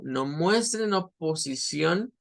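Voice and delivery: no muestren oposición spoken slowly, muestren stressed; slow and deliberate. Shown as a demonstration. Teacher reading the verse slowly to students. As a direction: read it out slowly. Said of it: "eso es show".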